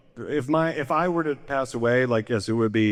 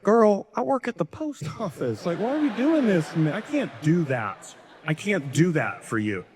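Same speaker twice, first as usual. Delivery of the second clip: higher, exasperated dad pleading; imagined dad; 5 semitones higher than usual. Retold or imitated. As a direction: voice the overwhelmed dad, rising then giving up. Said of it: "my dad was like".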